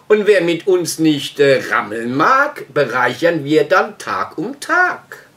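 rhythmic rhyming verse, slow in places; mildly performed verse reading; poem recitation. Acted. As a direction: declaim it line by line like a poem. Recites his own rewritten poem.

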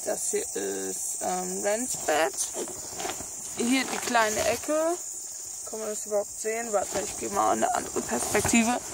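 speech slurred by a brace. Real, not acted. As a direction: talk around braces. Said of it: "Ich hab noch meine Zahnspange drin".

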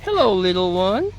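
put-on slow coo to a baby; sweet baby talk. Greeting the newborn kid.

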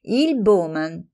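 slow, even and composed; calm. Acted. Friend replying calmly amid the quarrel, composed. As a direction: answer the outburst unruffled. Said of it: "disse pacatamente".

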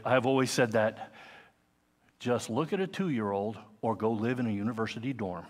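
usual speaking voice

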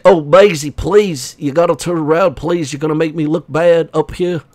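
mock pleading, lightly put on; a hint of a fussy husband begging his wife; lightly voiced H. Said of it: "I don't know what he said".

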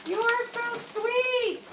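high, tender coo; touched gushing. Real, not acted. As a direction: coo your thanks sweetly. Touched by a gift.

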